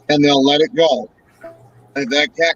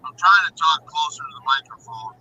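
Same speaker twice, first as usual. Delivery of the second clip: distant voice. Real, not acted. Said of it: "still sounds, like, distant".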